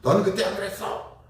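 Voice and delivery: a defensive churchgoer protesting that it was not so. Retold or imitated. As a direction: snap back in denial, mock-protesting. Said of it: "우리는 되게 방어적이거나".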